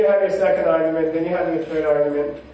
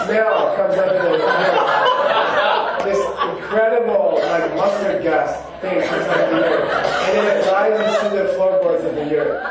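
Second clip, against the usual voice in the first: laughing while telling. Real, not acted. Laughing at his skunk story.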